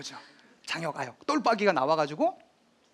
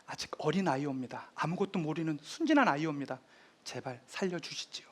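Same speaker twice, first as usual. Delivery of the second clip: 간청; 4 semitones lower, 8 dB quieter than usual. Retold or imitated. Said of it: "세종이 얘기를 합니다".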